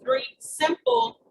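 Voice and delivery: slow down and lean hard on "simple"; stress on simple. Real, not acted. Coach asking for easy backup activities, emphasis on "simple". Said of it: "emphasis on simple".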